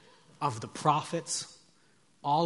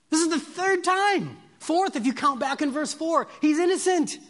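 high, loud, impassioned plea of a governor; Pilate's protest; 13 semitones higher, 9 dB louder than usual. Acted. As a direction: cry it out to an angry crowd. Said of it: "Pilate speaking".

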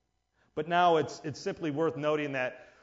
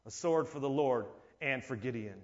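quiet solemn cry; 5 semitones lower, 5 dB quieter than usual. Acted.

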